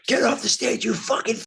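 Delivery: high, strained heckling yell; retold heckler's scream. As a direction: scream it like an angry fan in the front row. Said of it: "somebody in the front row just screams".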